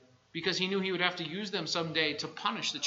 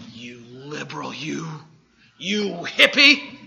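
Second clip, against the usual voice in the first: mock accusation; 3 semitones lower, 6 dB louder, slower than usual. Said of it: "Brother Harold," as Zach's looking at me".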